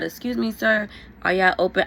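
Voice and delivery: retold call for attention, pitched high. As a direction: raise the voice to be heard, short of yelling. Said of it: "So I said it loud".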